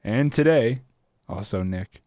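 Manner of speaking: slow, low public radio voice; lightly done radio host, unhurried. Pretend. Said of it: "Again with the public radio voice".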